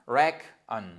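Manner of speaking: "reckon" split as RECK, then a weak un; syllable split. Shown as a demonstration. Teacher showing K joins first syllable, "reckon" as RECK-un. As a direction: break "reckon" after the K, stress first. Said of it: "c'est toute la première syllabe".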